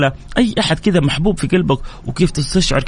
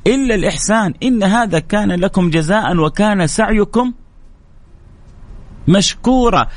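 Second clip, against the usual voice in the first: higher, slow chanted verse; Quranic recitation; 4 semitones higher than usual. Acted. Preacher recites the verse to the congregation in a lifted chant. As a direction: intone the verse reverently and slowly.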